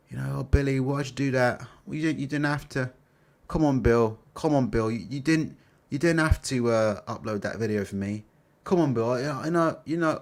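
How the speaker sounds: a lightly voiced grovelling promoter; mock Ben Shalom. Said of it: "I can't do the Ben Shalom voice".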